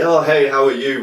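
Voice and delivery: upbeat hi to a friend; cheery greeting. Retold or imitated. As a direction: greet them like you're thrilled to see them. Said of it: "really happily".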